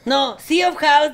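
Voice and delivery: correcting a letter carefully; slow correction. Retold or imitated. Spelling to a phone operator.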